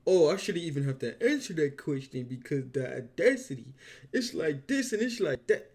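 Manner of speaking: high, loud, outraged disbelief; loud exasperated rant. Real, not acted. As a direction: shout it at the screen in disbelief. Reacting loudly to clip.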